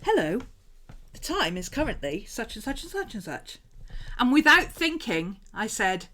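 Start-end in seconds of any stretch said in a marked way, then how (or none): 0.0-3.6 lightly mimicked digital assistant; Siri. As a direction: sing out the time like a voice assistant. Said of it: "So I did the whole, "Hey, S".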